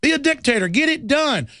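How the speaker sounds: high, dopey mock voice of easy agreement; mock citizens cheering on a dictator, high and silly; gullible public. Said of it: "And people are like".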